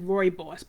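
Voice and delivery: "rooibos" said as ROY-boss; rooibos pronunciation. Shown as a demonstration. Host repeats the surprising tea name, "rooibos" as ROY-boss. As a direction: pronounce "rooibos" ROY-boss, in two syllables. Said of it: "that's the way they say you pronounce it".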